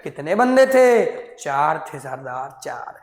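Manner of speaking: mock Gabbar and henchman exchange; Sholay dialogue. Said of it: "सरदार जी".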